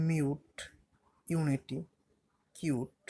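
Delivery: মিউট, ইউনিটি, কিউট each with a "yoo" sound; U pronounced "yoo". Shown as a demonstration. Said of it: "ইউর উচ্চারণ কেমন হবে". (মিউট, ইউনিটি, কিউট-এ U-এর উচ্চারণ "ইউ")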